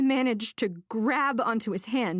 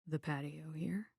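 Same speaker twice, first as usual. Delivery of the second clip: whispered lie; 3 semitones lower, 12 dB quieter than usual. A narrator's reading. Cagey man hiding a lie.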